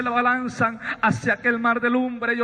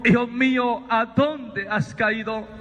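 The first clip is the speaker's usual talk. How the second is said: slow, drawn-out fatherly call; voice from the light; slower than usual. Retold or imitated. Voice from the light calls Sabino by name, slow and solemn. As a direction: stretch out the question solemnly. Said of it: "aquella voz que salía del resplandor".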